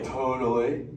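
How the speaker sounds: surfer-dude Awesome, said low and stretched; turtle talk demo. Shown as a demonstration. Crush coaching a kid to talk turtle, low dude drawl.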